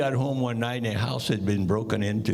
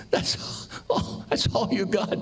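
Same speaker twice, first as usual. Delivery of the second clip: incredulous; 11 semitones higher, slower than usual. Acted. Mugger outraged at fifty-eight cents.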